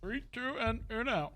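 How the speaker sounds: imitating the countdown. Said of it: "Do everything I do".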